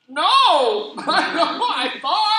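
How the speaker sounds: high, loud, laughing admission; laughing sheepish reply. Retold or imitated. Answering the preacher's question, laughing and sheepish. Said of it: "I'm like".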